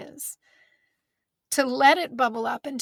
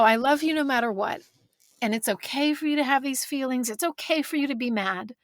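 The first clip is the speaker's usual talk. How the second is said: getting weepy; 3 semitones higher than usual. Real, not acted. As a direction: let the feeling catch as you repeat "I love you no matter what". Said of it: "making myself all weepy".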